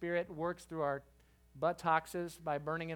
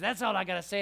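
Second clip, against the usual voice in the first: lightly imitated pastor; 7 dB louder, faster than usual. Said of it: "like that".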